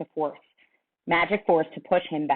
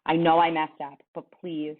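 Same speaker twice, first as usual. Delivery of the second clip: pleading, voice breaking; 3 dB louder than usual. Acted. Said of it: "The words began to break up in my throat".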